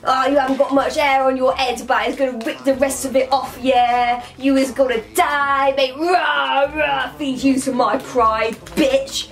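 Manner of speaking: lightly acted roaring lion threat; Scar. Playing Scar mauling William, mock roaring threat. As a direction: growl it out, drawing out the roars. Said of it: "That's what Scar would be like".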